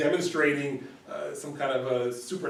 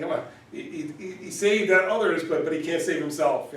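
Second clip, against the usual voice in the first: higher, louder scoffing; mocking jeer; 4 semitones higher, 4 dB louder than usual. Chief priests scoffing at Jesus, higher and louder. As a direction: scoff at the man who saved others.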